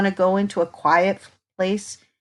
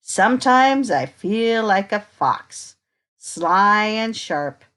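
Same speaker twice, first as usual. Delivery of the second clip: put-on reading to children. Reading picture book to children.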